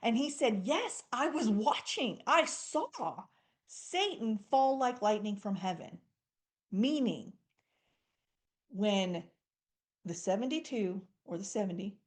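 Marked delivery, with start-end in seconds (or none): 0.7-6.0 Jesus celebrating with his disciples; celebrating reply. Retold or imitated. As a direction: share their joy, yes I saw it. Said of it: "He was celebrating with him".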